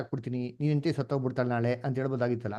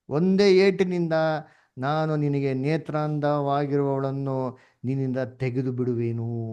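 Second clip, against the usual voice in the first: slow, louder and weighty, a voice from above; solemn voice of God; 5 dB louder, slower than usual. Retold or imitated. Teacher voicing God's warning to Ezekiel, slow and solemn. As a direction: pronounce the verse like a stern decree. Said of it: "ನೋಡಿ ಹೇಳ್ತಾರೆ".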